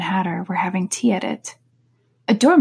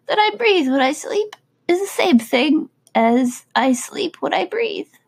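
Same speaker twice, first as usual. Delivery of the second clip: sleep talking; 8 semitones higher than usual. Acted. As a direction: mumble it like you're half asleep. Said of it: "talking in his sleep".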